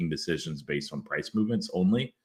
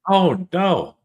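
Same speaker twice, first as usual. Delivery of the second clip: surprised oh no; 11 semitones higher, 6 dB louder than usual. Real, not acted. Reacting to aunt selling early.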